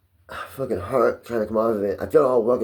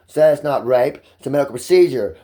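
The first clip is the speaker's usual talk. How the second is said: louder, scornful echo of the excuse; bitter sarcasm; 2 semitones higher, 5 dB louder than usual. Real, not acted. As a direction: throw their excuse back at them.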